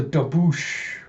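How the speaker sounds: slow, drawn-out "daboosh"; imitated splash. Narrator as water drops her over the edge, splash effect. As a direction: mimic a big crash of water.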